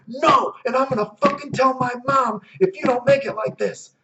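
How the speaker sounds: put-on high, whiny tattletale kid voice; mock a bratty kid threatening to tell mom; whiny Jimmy. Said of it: "And Jimmy's like".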